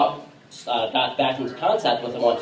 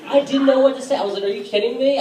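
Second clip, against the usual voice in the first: retold disbelief; 11 semitones higher, faster than usual. Retold shock.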